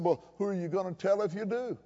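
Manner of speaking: understated, unruffled comeback; retold calm reply. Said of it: "I looked at him very calmly".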